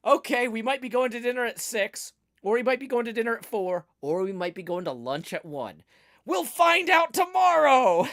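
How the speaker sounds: cheerfully unhinged, building to a yell; manic acceptance. Retold or imitated. Embracing parents' chaotic schedule, building to a manic shout.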